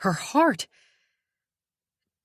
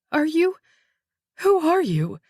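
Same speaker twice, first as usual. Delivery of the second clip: agitated; 8 semitones higher, 4 dB louder than usual. Acted. Dazed victim questions detective.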